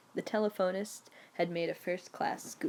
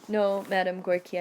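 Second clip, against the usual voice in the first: firm "No, Madame Gorky", louder, "No" stressed; persistent; 6 dB louder than usual. Retold or imitated. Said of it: "I persisted".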